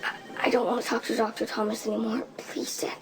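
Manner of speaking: frightened, hushed and hurried; boy pleading with his dad, hushed and frightened; scared whisper. Acted. Scared boy begging to leave.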